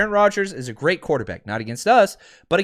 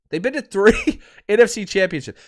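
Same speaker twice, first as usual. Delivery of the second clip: laughing. Real, not acted. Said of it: "We've been to three".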